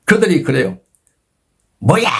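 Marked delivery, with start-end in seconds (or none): 1.8-2.1 drawn-out mock yell, not at full volume; retold shout. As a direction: imitate an angry soldier yelling. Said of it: "막 소리치더라고요". (소리치는 흉내)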